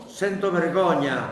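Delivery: embarrassed little laugh. Real, not acted. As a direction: laugh through the words. Embarrassed about his Italian.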